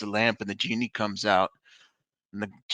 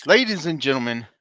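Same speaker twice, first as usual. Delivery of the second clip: announcer intro; 4 semitones higher, 5 dB louder than usual. Acted. Opens the show proper.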